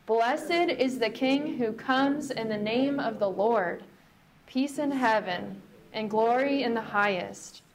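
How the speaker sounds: slow, proclaiming chorus; said together aloud. Shown as a demonstration. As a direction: proclaim it like the crowd. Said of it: "Let's say it together".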